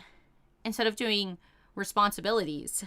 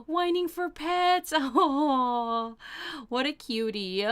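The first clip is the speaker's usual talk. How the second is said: cooing; 4 semitones higher, slower than usual. Real, not acted. Cooing over a dog wanting pets.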